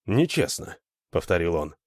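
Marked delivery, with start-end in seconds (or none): 0.0-0.8 higher-pitched, questioning echo; stunned echo. A narrator's reading. Alan repeats Lita's charge, stunned. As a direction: repeat it in stunned disbelief, lifting the end. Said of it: "Алан был ошеломлён".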